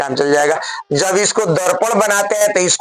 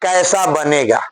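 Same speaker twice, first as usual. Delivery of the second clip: slow, spaced dictation for writing; a teacher dictating the question slowly; slower than usual. Shown as a demonstration. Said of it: "प्रश्न लिखिए".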